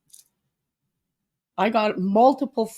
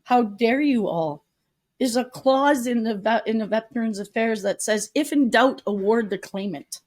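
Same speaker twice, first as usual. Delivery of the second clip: angry judge; 2 semitones higher than usual. Retold or imitated. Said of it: "turned into this monster and attacked them".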